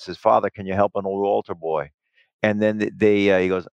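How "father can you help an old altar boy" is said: lightly imitated New York accent; a hint of a homeless New Yorker's accent. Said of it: "in a New York accent".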